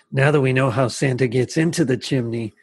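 a sleepy, dopey mammoth wondering aloud; Snuffy impression. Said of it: "his voice is so creepy".

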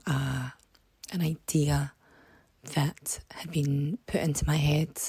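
hoarse, croaky speaking voice. Real, not acted. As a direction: talk through a croaky, worn throat. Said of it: "apologies for the really croaky voice".

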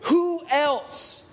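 slow, drawn-out disbelief with big pauses; incredulous rhetorical outrage. Real, not acted. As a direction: let each phrase land in theatrical astonishment. Mock outrage at Jesus saying woman.

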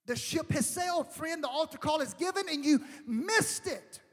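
emphatic pulpit delivery with stretched key words; urgent preaching. Real, not acted. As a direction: drive the appeal home to the congregation.

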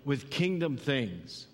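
high, eager voice, lit up with zeal; excited. Retold or imitated. Pastor voicing Paul rallying believers, eager and excited. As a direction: pump the crowd up about Monday. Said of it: "He's like".

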